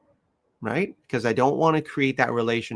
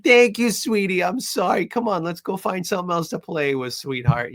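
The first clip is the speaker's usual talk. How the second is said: sweet talk to puppy; 7 semitones higher, 3 dB louder than usual. Retold or imitated. Owner sweet-talks puppy.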